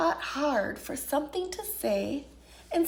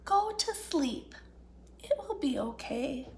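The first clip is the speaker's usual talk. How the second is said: soft drowsy whisper fading out; sleepy whisper; 3 semitones lower, 6 dB quieter than usual. Acted. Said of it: "whispered a sleepy little fox".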